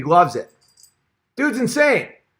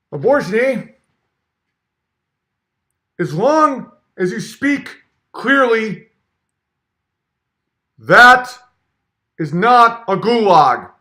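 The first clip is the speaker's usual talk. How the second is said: higher, slow mock-Peterson croak, eh; Peterson impression; 5 semitones higher, 4 dB louder, slower than usual. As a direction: parody him as a pompous frog. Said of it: "talks like a frog".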